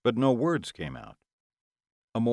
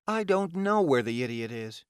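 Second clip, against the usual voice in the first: higher-pitched exasperated villainess; pained protest; 5 semitones higher than usual. Acted. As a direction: protest it under duress. Ilona winces, held painfully.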